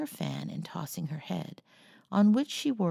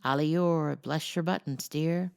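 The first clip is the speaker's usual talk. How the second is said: croaking parrot. Acted. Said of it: "gravely croaked".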